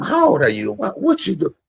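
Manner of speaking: high, sweet motherly questions; mama's sweet voice. Retold or imitated. Mom greeting her son's friends, high and sweet. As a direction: coo at the guests like a doting mom.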